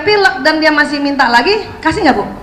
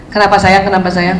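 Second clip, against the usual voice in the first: gentle coaxing; 8 semitones lower than usual. Retold or imitated. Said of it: "Suaranya nggak lembut lagi".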